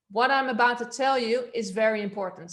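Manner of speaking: loud but controlled, without shouting; supported projection. Shown as a demonstration. Coach showing the class balanced volume, projected not shouted. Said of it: "So I'm using this".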